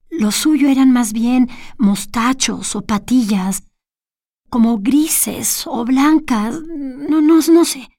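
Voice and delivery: slow down and lose certainty toward the end; hesitant Olga. Acted. Olga unsure of the stranger's beard, a hint of a faltering voice.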